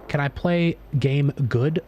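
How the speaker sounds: slow dumb caveman asking; dopey slow caveman question, rising. Acted. Dumb caveman gamer bit.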